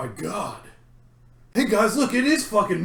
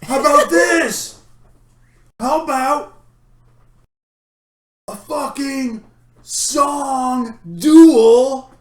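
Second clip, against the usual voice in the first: brash challenger; 4 semitones higher, slower than usual. Acted. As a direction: sneer it out to the crowd. Rival challenges to song duel.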